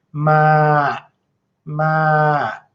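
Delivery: drawn-out "ma" with creaky tone pushed down. Teaching pronunciation, demonstrating a tone pushed down at the end: creaky voice. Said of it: "you hear the creaky tone".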